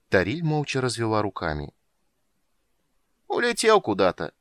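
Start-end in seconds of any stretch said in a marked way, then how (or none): 3.3-4.3 much higher, whining lament; plaintive. A narrator's reading. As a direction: complain pitifully. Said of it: "жалобно сказал король".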